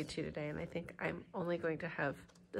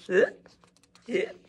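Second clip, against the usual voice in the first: hiccups popped out louder; acted hiccups; 11 dB louder than usual. Shown as a demonstration. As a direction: make it sound like real hiccups. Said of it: "'cause that's really what it's like".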